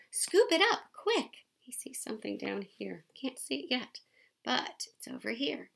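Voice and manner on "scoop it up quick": high, loud urgent call to scoop; yelling. A narrator's reading. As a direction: call out fast, the moment matters. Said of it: "Mama yelled".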